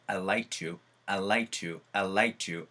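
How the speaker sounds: I like to with the d swallowed; reduced I'd. Shown as a demonstration. Teacher showing how I'd like to really sounds, reduced. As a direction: let the d of "I'd" vanish into "I like to". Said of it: "이런 느낌으로 전달을 받으실 거예요".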